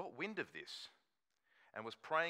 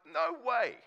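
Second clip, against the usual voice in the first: a high, loud "No way" shout; mock refusal; 12 semitones higher, 12 dB louder than usual. Ditching the scam letter, a loud mock shout. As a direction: throw the offer away with a loud "No way".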